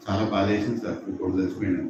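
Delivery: low, stiff condolence. Acted. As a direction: drop the voice low for a clumsy sympathy line. Awkward son offering condolence.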